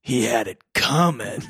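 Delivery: action hero one-liner. Retold or imitated. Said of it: "would be a one-liner".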